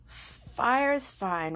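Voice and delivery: slow, loud grudging concession; fussy rabbit, drawn out; a touch of prim Rabbit. Acted. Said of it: "Rabbit said".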